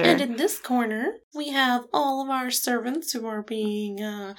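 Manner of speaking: cheery sinister host showing around; Jaguar impression. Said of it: "I love your Jaguar impression".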